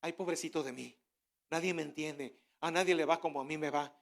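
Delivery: mock feeling sorry for yourself; self-pity. Preacher mimicking a self-pitying believer, lightly whiny. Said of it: "A autocomiserarnos".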